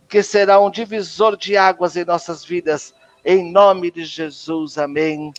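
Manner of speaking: measured, rhythmic prayer declaration; declaração de fé. Acted. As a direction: proclaim each line as a blessing. Declaração de fé em lista. (proclamação solene de bênçãos)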